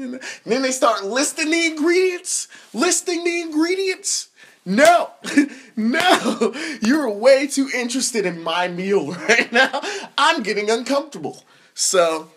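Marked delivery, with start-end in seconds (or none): 1.0-4.3 high, rising comic outrage; exasperated disbelief. Acted. Ranting about people eyeing his meal, exasperated. 4.6-11.4 high, loud protest breaking into laughs; comic objection. Acted. To someone too interested in his meal, mock-alarmed protest.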